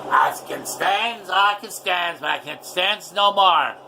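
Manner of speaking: slow, lightly voiced cartoon sailor; a loose Popeye impression, dragged out; quoting Popeye, slow and gruff-ish. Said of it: "Like Popeye the Sailor Man said".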